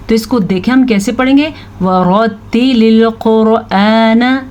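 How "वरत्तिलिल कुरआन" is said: वरत्तिलिल कुरआन drawn out, r and q thickened; full ra and qaf. Shown as a demonstration. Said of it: "मैंने इधर भी रॉ को पुर".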